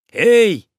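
loud high hail across the water; hailing the shore from a boat, loud and high; calling out. A narrator's reading. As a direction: call out to the island, loud and high. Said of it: "крикнул Пахомыч".

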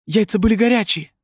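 very high, squeaky retort; protesting waiter. A narrator's reading. Waiter protests from a safe distance, high and squeaky. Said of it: "отозвался с безопасного расстояния официант".

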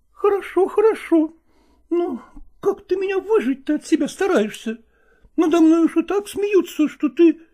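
high, aggrieved female voice; hurt woman. Acted. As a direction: play her wounded pride, high. Nastina offended.

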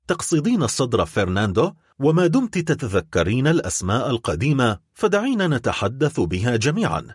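a touch of cutting mockery; biting sarcasm. The count mocks Mercedes, mildly sarcastic. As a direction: needle her lightly with the old names. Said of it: "فقال مونت كريستو بتهكم لاذع".

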